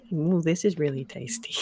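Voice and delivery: small hushed delight; sad little girl cheering slightly. Acted. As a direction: say it quietly, still a touch sad. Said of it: "sad and scared".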